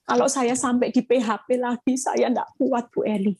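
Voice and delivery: lightly voiced worried woman, pleading; anxious counselee. Pastor quoting a worried wife in counseling, mild anxious pleading. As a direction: plead as a mildly frightened wife. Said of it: "bilang gini".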